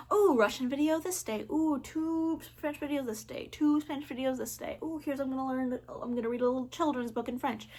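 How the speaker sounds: lightly acted little "ooh" of discovery; pleased planner check. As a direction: coo over each new task on the list. Acting out opening weekly planner.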